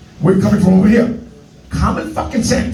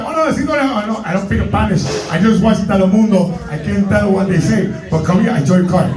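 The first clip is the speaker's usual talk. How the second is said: put-on Spanish-accented broken English; comic fake Spanish accent. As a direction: play a salesman with a thick Spanish accent. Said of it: "I would do a Spanish accent".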